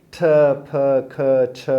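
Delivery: ٹھ، پھ، کھ، چھ as separate aspirated sounds; accent sounds. Shown as a demonstration. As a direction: puff out ٹھ، پھ، کھ، چھ one by one. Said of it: "یہ جو ساؤنڈز ہیں". (ٹھ، پھ، کھ، چھ الگ الگ، ہوا کے ساتھ)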